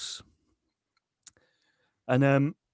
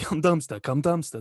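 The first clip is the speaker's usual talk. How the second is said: mild mock crowd holler, higher pitch; crowd shouting; 4 semitones higher than usual. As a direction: imitate a crowd's repeated shouts, only lightly raised. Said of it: "They were shouting it".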